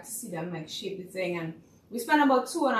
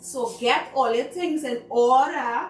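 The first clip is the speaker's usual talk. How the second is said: higher, louder director pep talk; rally nervous kids before the show; bossy teacher voice, pitched up; coaching the kids; 6 semitones higher, 3 dB louder than usual. Retold or imitated. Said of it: "I'm like".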